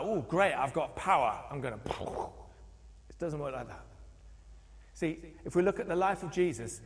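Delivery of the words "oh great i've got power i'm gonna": mock boastful. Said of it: "It's not like".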